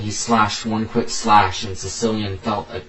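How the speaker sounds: storyteller reading aloud, firmly stressed; story narration. A narrator's reading. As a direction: read it out as a dramatic tale. Reads own story aloud.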